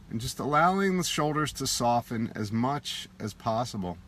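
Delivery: unhurried meditation guide, long pauses between phrases; guided meditation. Acted. Teacher guiding listeners to soften face and shoulders, in meditation voice. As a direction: gently lead a body relaxation, leaving space after each instruction.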